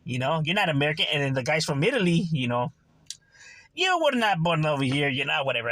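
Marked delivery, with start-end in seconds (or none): 3.7-5.1 put-on half-hearted go at an Italian accent; attempted Italian accent. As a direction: imitate an Italian immigrant's accent, badly. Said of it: "I can't do the accent".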